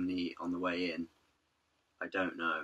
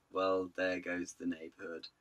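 put-on snooty elderly couple; slower than usual. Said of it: "just the look of".

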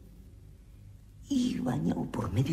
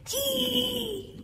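grito agudo de personaje. Acted. El Sofá responde gritando.

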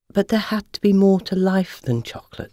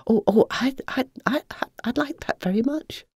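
whisper; 9 semitones higher than usual. A narrator's reading. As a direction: breathe it out shyly. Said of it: "whispered Eva".

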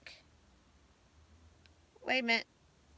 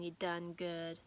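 quieter, lower repeat of the praise; soft folksy praise; 6 semitones lower, 7 dB quieter than usual. Real, not acted. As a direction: say it again softly, heartfelt.

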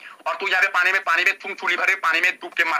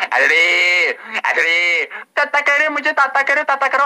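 mock whiny pleading; 2 semitones higher, 3 dB louder, slower than usual. Mocking rival by imitating his whiny begging. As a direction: mimic him pleading pathetically, lightly hammed. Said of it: "लेकिन तू तो unnecessary".

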